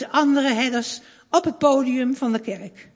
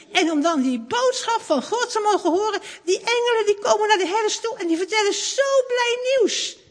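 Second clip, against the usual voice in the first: higher, overjoyed, almost laughing and tearful; joyful; 9 semitones higher than usual. Acted. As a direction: marvel aloud with happy emotion. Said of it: "En dan wordt Tim zo blij".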